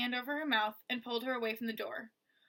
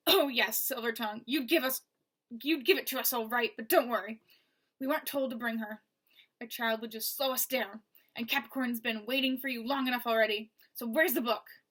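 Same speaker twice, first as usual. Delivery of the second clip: mocking villain; 5 dB louder than usual. Villain mocks captive.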